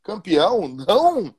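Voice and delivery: mock wife scolding. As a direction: play the wife reproaching her husband. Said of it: "a tua esposa vai dizer".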